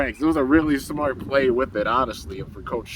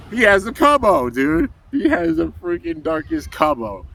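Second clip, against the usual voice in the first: higher-pitched, excited exclamation; real excitement, pitched up; excited reveal; 5 semitones higher, 4 dB louder than usual. Real, not acted. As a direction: share it like a thrilling reveal. Teller thrilled by the reveal.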